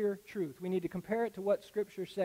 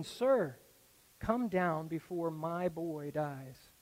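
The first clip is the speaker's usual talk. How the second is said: undaunted plea; much slower than usual. Retold or imitated. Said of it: "the man is undaunted".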